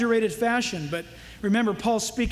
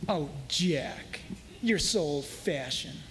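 teasing date; 9 semitones lower, 7 dB quieter, slower than usual. Retold or imitated.

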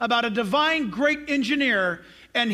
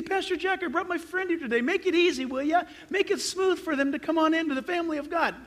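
higher-pitched pleading member; churchgoer's request; 5 semitones higher than usual. Acted. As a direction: ask the pastor to go easy, higher voice. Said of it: "You say".

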